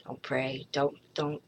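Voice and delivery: barely holding it together, pleading quietly; a hushed, hopeless plea; real despair. Real, not acted.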